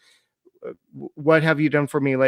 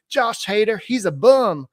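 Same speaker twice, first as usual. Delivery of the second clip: higher, louder mock New York accent; bad New York accent; 8 semitones higher, 5 dB louder, slower than usual. Co-host mocking a fan in a bad New York accent. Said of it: "that was a bad, uh, New York accent".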